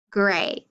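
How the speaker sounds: "gray", grape with no p at the end; final sound dropped. Shown as a demonstration. Teacher showing grape without its last sound, final sound dropped. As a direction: leave "gray" open, without the closing p. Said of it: "Grape without the P is just".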